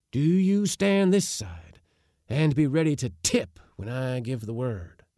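put-on high, eager old man voice; flushed with anticipation; excited old uncle. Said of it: "all animation and flushed with the foretaste".

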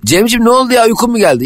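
high, mock concerned voice; lightly voiced fussing friend; imitating Ayşe. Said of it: "Diyor ki".

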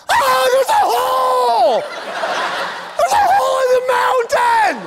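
high, wailing mock panic; hammed-up shrieking alarm; panicked driver. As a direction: scream it like a terrified driver, drawing out the words. Acts a panicked driver at tunnel.

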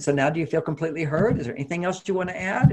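calm and peaceful. Retold or imitated. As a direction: ask it calmly, like a patient therapist. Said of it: "I did it very calmly and peacefully".

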